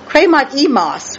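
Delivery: kremat emos, last syllable emphasised; stress on last syllable. Shown as a demonstration. Teacher showing the church "kremat emos", emphasis on last syllable. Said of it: "with emphasis on the last syllable".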